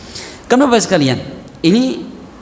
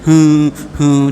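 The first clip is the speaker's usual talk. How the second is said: mock dry sobbing; 2 semitones lower, 4 dB louder than usual. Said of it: "Akhirnya nangis".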